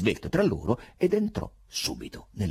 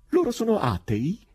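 higher, louder curious question; curious little cry; 14 semitones higher, 4 dB louder than usual. A narrator's reading. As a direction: perk up with eager curiosity. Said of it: "un gridolino di curiosità".

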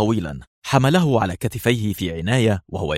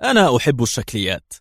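provocative; 3 semitones higher than usual. Acted. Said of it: "بأسلوب استفزازي".

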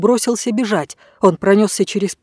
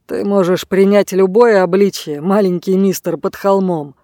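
snide. Acted. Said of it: "съязвил он".

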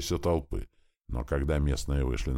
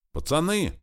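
put-on high, excited call to the boys; high excited yell; excited shout; 12 semitones higher than usual. A narrator's reading. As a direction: burst in shouting with alarm. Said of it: "возбуждённо закричал Лившиц".

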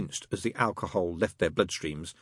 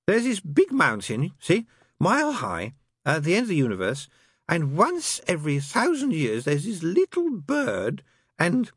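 put-on drunk demon storyteller; 10 semitones higher, 4 dB louder than usual. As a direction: spin the yarn tipsily. Crowley telling the bird story.

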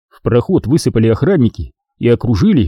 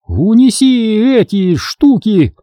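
ordering; 11 semitones higher, much slower than usual. A narrator's reading. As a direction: order it through a forced smile. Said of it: "велела Обин Ветарзу".

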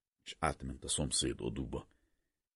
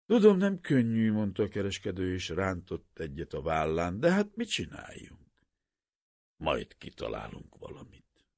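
an earnest, raised-voice merchant urging a despairing man; merchant pleading; 4 semitones higher, 6 dB louder than usual. A narrator's reading. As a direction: talk him out of it with rough insistence. Merchant shrugging, consoling.

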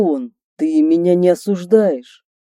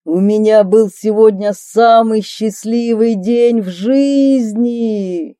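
higher, louder joyful call, stretched out at the end; shouting from the dark; 5 semitones higher, 4 dB louder, slower than usual. Acted. The gangster shouts after her from the darkness, overjoyed. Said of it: "кричит он из темноты".

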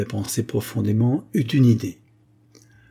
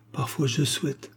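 "Parfois je souhaite" higher, left hanging; left unfinished; 5 semitones higher, 4 dB quieter than usual. A narrator's reading. Young woman hesitating before her lover, "Parfois je souhaite" left unfinished. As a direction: begin "Parfois je souhaite" gently, then break off. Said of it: "Et il n'acheva pas".

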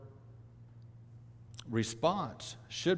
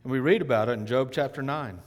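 normal talking voice

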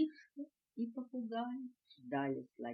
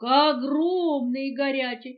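proud announcement; 3 semitones higher, 8 dB louder than usual. A narrator's reading. Elephant reporting the greeting proudly.

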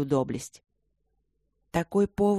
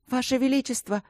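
high, pleading cry of the title; Abby begs the queen, high pleading cry; pleading exclamation; 7 semitones higher than usual. A narrator's reading. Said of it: "умоляюще воскликнула Эбби".

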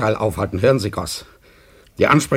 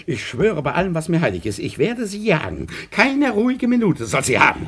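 rising higher, grimly vowing to hunt her; vengeful oath; 5 semitones higher than usual. Acted. Masur swearing to hunt Frau Fino, vengeful.

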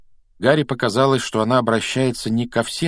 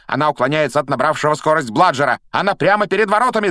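fast, high excited commentary; live play-by-play; 6 semitones higher, 4 dB louder than usual. Acted. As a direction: ride the action like a commentator. Lee Jordan's play-by-play.

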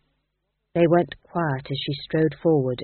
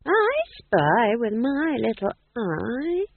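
put-on slow, teasing old woman's voice; old witch playing I spy; 5 semitones higher, much slower than usual. Nanny Ogg teasing the ghost king with I spy, slow and sly. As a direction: draw out the game, much slower.

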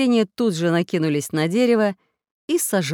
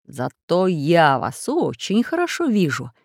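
taunting villain. Acted. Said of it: "прокричал голос".

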